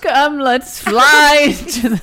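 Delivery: a lightly put-on witch with laughter; cheerful crone invitation. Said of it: "you sound like a, a witch".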